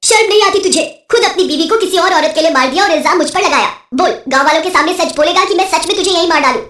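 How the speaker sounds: a touch of outrage; angry witch. Acted. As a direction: shame and threaten the culprit. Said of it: "चुड़ैलों को ये सुनकर बहुत गुस्सा आता है".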